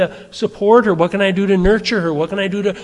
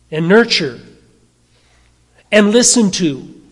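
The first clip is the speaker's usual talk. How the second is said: preaching; 3 semitones higher, 4 dB louder than usual. Acted. Builds into forceful preaching.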